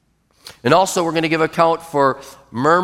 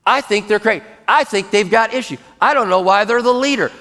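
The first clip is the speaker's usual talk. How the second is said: higher-pitched, insistent acted fault-finding; murmuring complaint; 4 semitones higher than usual. Shown as a demonstration. Complainer building a coalition against leadership, murmuring.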